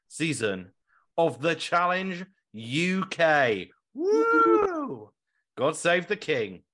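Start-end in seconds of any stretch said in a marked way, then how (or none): 3.9-5.1 high, loud celebratory whoop; excited whoop. Real, not acted. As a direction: cheer it out like a fan. Cheering the UK season.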